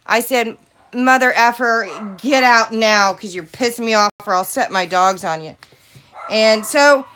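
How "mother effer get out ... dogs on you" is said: angry. Retold or imitated. Angry retold confrontation with solicitor.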